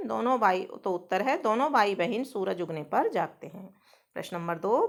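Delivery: usual speaking voice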